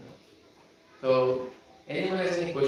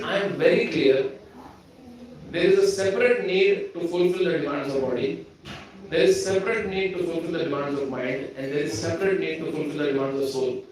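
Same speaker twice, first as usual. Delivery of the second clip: quoting Jay; 3 semitones higher, 4 dB louder than usual. Retold or imitated. Preacher quoting Jay, clear and confident, a touch louder. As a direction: voice a sure young man stating his view. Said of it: "He said".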